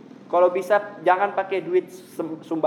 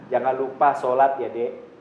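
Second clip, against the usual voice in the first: gentle advice; 2 semitones lower than usual. Shown as a demonstration. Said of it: "ente bilang".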